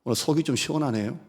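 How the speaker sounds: normal talking voice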